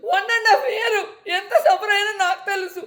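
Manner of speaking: real tears breaking through the words; tearful, barely holding together. Real, not acted. Recalling suffering, voice breaking. (కన్నీళ్లతో గొంతు వణుకుతూ)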